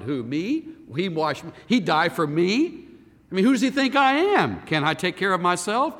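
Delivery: proud indignation. Retold or imitated. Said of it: "voicing a proud listener".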